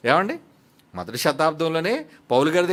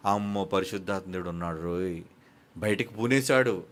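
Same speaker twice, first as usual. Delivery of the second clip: a hint of hushed awe, lower and softer; awed exclamation; 9 semitones lower, 5 dB quieter than usual. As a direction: gasp it like someone startled by the Spirit. People reacting in awe. (భయంతో మెల్లగా ఆశ్చర్యపోతూ)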